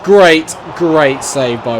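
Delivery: sudden loud yelp of "Great,"; excited shout. Real, not acted. Gamer watching a keeper save, excited shout. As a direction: blurt it out, high and loud.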